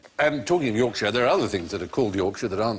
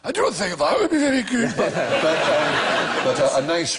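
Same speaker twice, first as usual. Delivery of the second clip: put-on Edinburgh accent; 4 semitones higher, 3 dB louder than usual. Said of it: "Edinburgh in particular".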